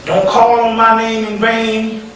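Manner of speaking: slow, measured spirit pronouncement; lightly voiced entity, words drawn out. Entity announces its name to the listeners, slow and measured. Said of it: "One entity came down, he said".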